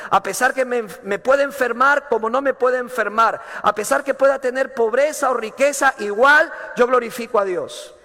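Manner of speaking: rising preacher fervor, building up; preaching. Acted.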